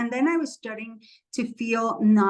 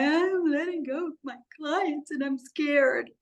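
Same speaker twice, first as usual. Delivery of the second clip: retelling being scared; 5 semitones higher than usual. Retold or imitated. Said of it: "I started crying".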